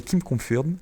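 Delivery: English game term said with a thick French accent. Real, not acted. Gamer naming the English game mode, French-accented English. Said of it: "excusez-moi pour mon accent anglais".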